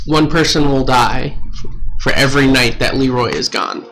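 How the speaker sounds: slow, deliberate read of a threatening note. Acted. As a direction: read it out in measured phrases, with pauses. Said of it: "and it says".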